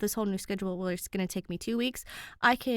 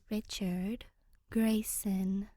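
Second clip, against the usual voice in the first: 1 dutiful answer; much slower than usual. Acted. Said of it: "but dutifully answers".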